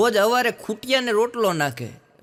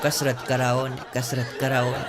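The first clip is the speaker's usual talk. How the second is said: laughing through it. Acted. The wife explains, laughing.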